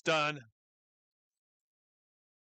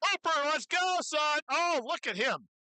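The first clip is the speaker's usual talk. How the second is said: excited cheering; 8 semitones higher than usual. Real, not acted. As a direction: spur him on, then marvel. Announcer cheering on a lifter.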